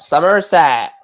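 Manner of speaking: put-on West Country Somerset burr; mock Somerset cider-drinker accent. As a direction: lean on the Somerset R sounds. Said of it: "You end up sounding from Plymouth or Somerset".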